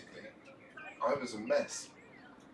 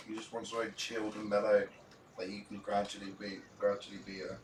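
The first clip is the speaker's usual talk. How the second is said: talking while eating chips; words around a mouthful of chips; mouth full. Real, not acted. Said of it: "Apologies, I'm eating".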